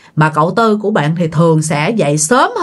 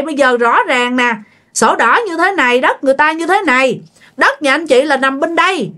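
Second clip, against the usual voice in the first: higher-pitched acted remonstration; official reprimand; 5 semitones higher than usual. Local official tells neighbours off over encroaching house, reprimanding. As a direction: voice an official taking the neighbour to task. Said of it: "chính quyền người ta cũng nói".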